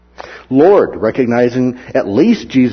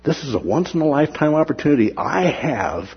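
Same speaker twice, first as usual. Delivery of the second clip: eager hope; 3 semitones higher than usual. Retold or imitated. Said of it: "saw it as".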